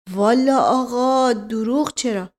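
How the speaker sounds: slow, drawn-out folksy reply; unhurried storyteller's stall; stalling servant. Acted. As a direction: begin a leisurely explanation. Mashqasem begins rambling reply.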